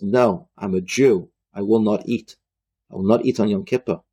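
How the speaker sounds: low, measured, resolute refusal; firm refusal. Retold or imitated. Retold refusal at gunpoint.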